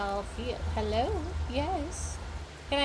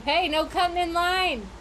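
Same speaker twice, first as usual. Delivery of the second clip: higher, louder playful scold; mock scolding; 6 semitones higher, 6 dB louder than usual. Gamer scolding a cat that cut in line, loud and high. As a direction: tell off the line-cutter.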